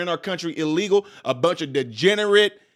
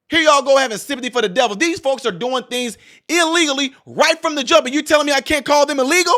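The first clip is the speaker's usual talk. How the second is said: fast, higher and rising, indignant; exasperated rant; 5 semitones higher than usual. Real, not acted. Vlogger scolding sympathizers, fast and indignant. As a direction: rattle it off in disbelief.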